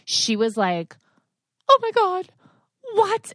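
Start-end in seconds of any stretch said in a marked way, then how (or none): 1.7-3.3 much higher, louder panicked tween squeal; panicked daughter. Retold or imitated. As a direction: shriek it like a horrified eleven-year-old. Starts panicking and writhing.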